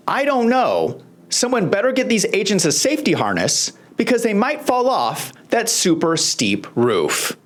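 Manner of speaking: mock concern, laying on the sarcasm; dry sarcasm, drawing out the last words; sarcastic. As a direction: feign worry over an obviously harmless danger. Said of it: "I'm being sarcastic".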